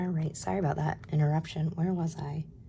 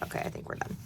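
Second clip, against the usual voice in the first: resigned; 7 dB quieter, faster than usual. Retold or imitated. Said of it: "which is why I'm saying, like".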